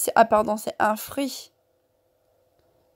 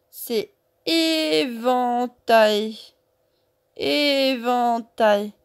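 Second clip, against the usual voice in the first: lent et articulé; slower than usual. Shown as a demonstration. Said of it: "lent pour les enfants".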